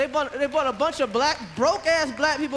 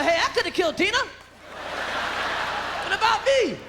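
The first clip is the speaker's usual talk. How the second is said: high, stretched whiny plea; lightly voiced jealous Ike; mock grievance, dragged out; Ike complaining; 5 semitones higher, slower than usual. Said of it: "Ike walking around going".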